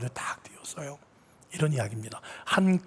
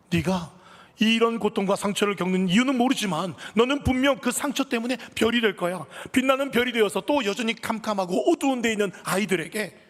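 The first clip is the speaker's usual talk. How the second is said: higher and louder, passionate blessing; fervent proclamation; 9 semitones higher, 4 dB louder than usual. Acted. Mother fervently declaring her son will become a star. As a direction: declare hope over the boy with fire. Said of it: "이런 말이 아이한테 튀어나오더래요".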